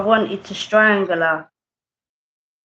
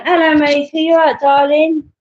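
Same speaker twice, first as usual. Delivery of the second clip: high and louder, cheery hello; bright loud greeting; 7 semitones higher, 6 dB louder than usual. Real, not acted. Streamer greeting a viewer who popped in, loud and cheery.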